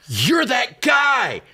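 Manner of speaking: high, slow Scottish exclamation; Scottish accent. Retold or imitated. Hostess recognizing the host, Scottish accent. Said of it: "I can't do the Scottish accent".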